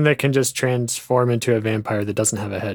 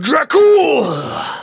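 wild dramatic yell, very high, swooping and loud; 7 dB louder than usual. Arguing with others about a movie scene, imitating Dracula's yell. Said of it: "he yells Dracul".

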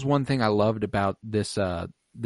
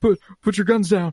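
mock very high, trembling, shaky, frightened voice; 10 semitones higher, 4 dB louder than usual. Retelling how a scene's character begs them to put guns down: imitating a scared shaky voice. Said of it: "His voice is all shaky and stuff".

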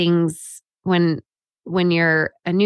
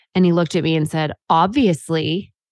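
ordinary talk, nothing marked

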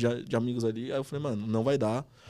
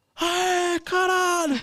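put-on yell, higher-pitched and louder; 7 dB louder than usual. Retelling seeing the scholarship approval notice: retelling own shout. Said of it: "eu só dei um grito só".

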